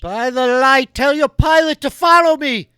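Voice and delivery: high, loud commanding call; rider's command. Acted. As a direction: order them to follow. Martin commands crew.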